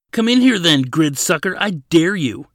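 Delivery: high, loud goading shout; shouted challenge. A narrator's reading. Trapped prisoner dares the officer, shouting. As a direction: yell a dare at the guard. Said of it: "he shouted".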